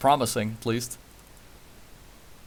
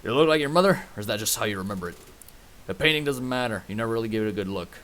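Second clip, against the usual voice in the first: put-on Western accent; 3 semitones lower than usual. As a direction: narrator keeping up a Western accent. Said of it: "so I can keep doing the accent".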